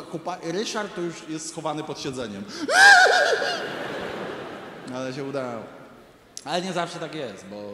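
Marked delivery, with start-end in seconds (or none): 2.5-4.9 high, loud burst of laughter. Real, not acted. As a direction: cackle out loud at the punchline. Big laugh at own story. (głośny, wysoki wybuch śmiechu)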